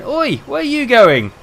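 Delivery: loud shout across the lift; mate shouting down the lift; shouted call. Retold or imitated. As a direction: yell after him to stop. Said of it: "my mate going".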